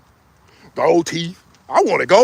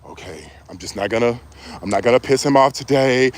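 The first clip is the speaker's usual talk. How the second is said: meek woman; 10 semitones lower than usual. Retold or imitated. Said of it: "women will sit there and just be like".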